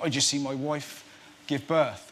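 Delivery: put-on West Country bloke; West Country accent. New father after the birth, West Country accent. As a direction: tell it in West Country tones. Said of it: "you're doing the West Country accent there".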